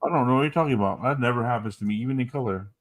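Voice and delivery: fast, deadpan sarcastic denial. Acted. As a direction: say it dripping with irony. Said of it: "That's sarcasm".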